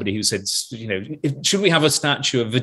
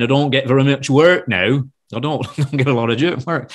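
lightly imitated Lancashire sound man; Lancashire accent. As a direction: slip into a mild Lancashire accent. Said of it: "very fruity way of talking like that".

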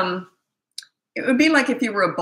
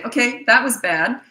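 calm, matter-of-fact; 6 semitones higher, 3 dB louder than usual. Shown as a demonstration.

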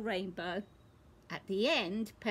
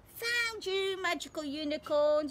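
higher, bright "found you" call; spring the discovery on them; excited find; 6 semitones higher, 4 dB louder than usual. Acted. Peppa finds a hidden thing.

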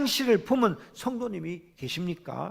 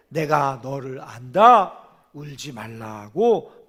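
gentle Jesus voice; 7 semitones lower, slower than usual. Acted. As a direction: lower and slow, tender "울지 말라고". Jesus's words voiced in sermon.

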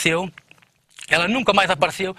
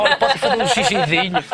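dainty ask; 3 semitones higher than usual. Shown as a demonstration. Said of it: "Ela foi charmosa".

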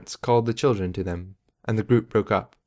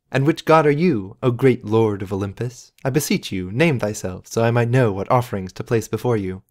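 mock grandiose. Mock-reverent address to a god.

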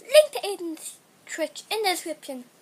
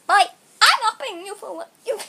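fast, loud teasing of the dog; 11 dB louder, much faster than usual. Real, not acted. Teasing the dog, loud and quick, about not taking him for a walk. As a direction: tease the dog loudly and quickly.

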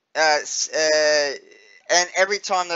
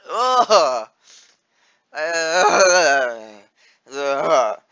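disgusted groans; 5 dB louder, much slower than usual. Real, not acted. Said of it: "I hate spiders".

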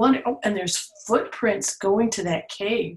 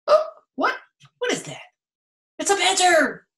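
much higher, playful astonished gasp; mock surprise; 10 semitones higher, 3 dB louder, much faster than usual. Meeting the badger in the book, high mock amazement. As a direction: act amazed for the child.

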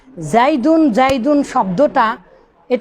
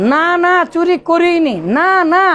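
both nos pushed out firmly, না, না stressed and higher; emphatic double no; 4 semitones higher than usual. Shown as a demonstration. Teacher demonstrating an emphatic denial, না, না hit hard. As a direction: insist the denial with না, না. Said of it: "এটা এক ধরনের শক্তিশালী দেওয়া হলো".

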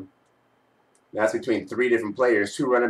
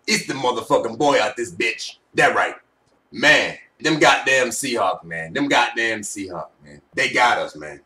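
low raspy put-on voice; smoker's rasp; 3 semitones lower than usual. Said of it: "man, I can't do that voice too long".

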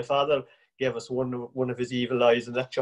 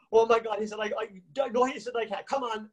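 higher-pitched flustered protest; panicked refusal; 8 semitones higher than usual. Retold or imitated. Danny to the waiting crowd, higher and flustered. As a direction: stammer a frightened no.

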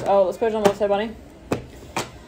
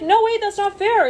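high, pleading little cry of unfairness; mock protest; 11 semitones higher than usual. Someone left out protesting to Leo, mock pleading. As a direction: whine it like a kid denied a treat. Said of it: "Someone's like".

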